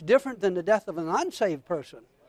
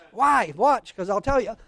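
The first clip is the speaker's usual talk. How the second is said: ordinary talk, nothing marked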